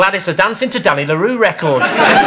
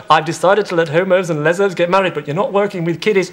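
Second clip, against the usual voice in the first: Tony Blair; 4 semitones lower, 4 dB quieter than usual. Acted. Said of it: "Tony Blair comes out and goes".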